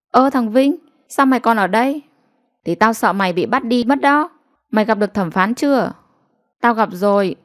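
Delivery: put-on two kids teasing each other; lightly voiced village children bantering. Children bickering outside court.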